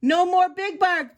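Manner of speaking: high, loud crowd cheer. A narrator's reading. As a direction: celebrate like a whole crowd. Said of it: "the crowd cheered".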